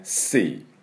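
シー with a long ee vowel; English sea. Shown as a demonstration. Teacher repeating シー for students. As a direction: stretch the ee in シー. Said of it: "この音ですね。".

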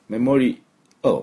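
メモリ, then アル reduced to a short "oh"; メモリ アル with almost no "a"; barely voiced "al". Shown as a demonstration. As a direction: let アル shrink to a dark l. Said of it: "っていうぐらいね".

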